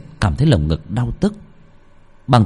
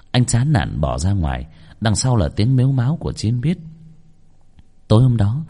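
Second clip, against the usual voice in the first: ordinary delivery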